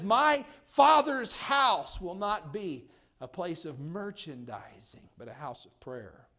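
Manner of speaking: slow, loud, ringing rebuke; righteous anger. Acted. Jesus driving out the money changers, slow angry rebuke. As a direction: thunder it slowly, word by word. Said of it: "He showed anger".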